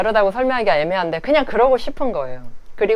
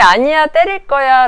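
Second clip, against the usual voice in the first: a louder, higher mock toddler protest; loud defiant toddler; 7 semitones higher, 7 dB louder than usual. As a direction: shout it like a stubborn child. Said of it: "라는 얘기는".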